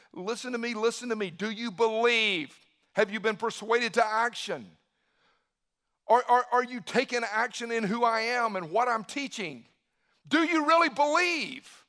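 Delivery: urgent acted appeal, rising at the end; insistent challenge. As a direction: press the listeners harder with each question. Voicing Jesus pressing listeners to believe.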